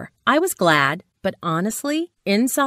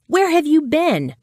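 much higher, louder call; retold yell; 9 semitones higher, 4 dB louder than usual. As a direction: yell the question, mock urgent. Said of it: "I yelled".

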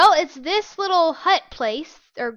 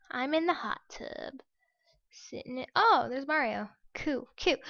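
whisper; 7 dB quieter than usual. Real, not acted. Whispering while game loads.

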